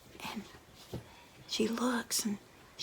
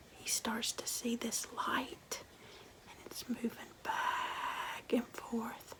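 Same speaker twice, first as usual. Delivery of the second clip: hushed spooky storytelling; 3 dB quieter than usual. A narrator's reading. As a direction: draw the listeners in with a creepy hush. Hushed spooky ghost-story narration.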